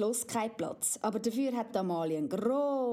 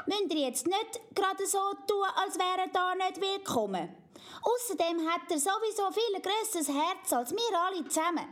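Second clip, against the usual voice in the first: put-on high, earnest child voice; pleading little girl Amalia; 8 semitones higher than usual. Amalia defends Mumba to her parents, high earnest child. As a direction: argue for your friend like a stubborn child.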